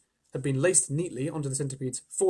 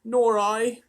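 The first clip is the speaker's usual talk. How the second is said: higher, louder little ladybird; agreeing ladybird, lightly voiced; 8 semitones higher, 7 dB louder than usual. A narrator's reading. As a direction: chirp it as the ladybird. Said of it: "the ladybird said".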